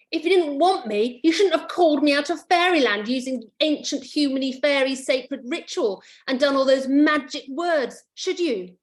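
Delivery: lightly voiced scolding fairy. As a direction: tell him off like a bossy fairy. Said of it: "fairy scolds the boy".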